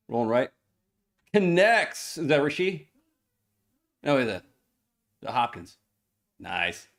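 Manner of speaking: game call with punched big plays; live play-by-play. Real, not acted. Co-host calling the game for livestream viewers, play-by-play. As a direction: call the football action as it unfolds.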